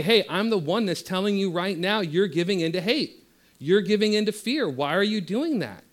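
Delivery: fierce confronting call. Acted. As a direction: shake them awake like a wrathful guardian. Fierce Buddha confronts the listener.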